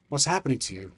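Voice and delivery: soft, caring question; compassionate. Acted. Mortar asking the dying dragon, soft with compassion. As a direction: ask it gently, with quiet concern. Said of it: "with his compassion".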